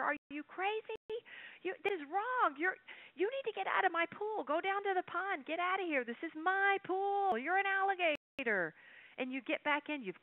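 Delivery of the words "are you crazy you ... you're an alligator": high-pitched exasperated mock yell. Pool owner yelling at the alligator in his pool, high mock outrage. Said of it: "now you're yelling at the alligator".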